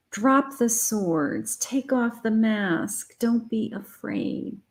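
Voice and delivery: slow, calm and soothing; slow reassurance. Acted. Spirit calming fearful listeners, slow and gentle. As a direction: ease them down, unhurried. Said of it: "Spirit is saying".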